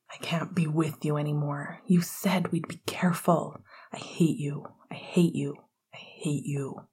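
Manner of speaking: low, soft, breathy nightmare echo; cold rejection. A narrator's reading. Nightmare voice rejecting Sirius, cold and hushed.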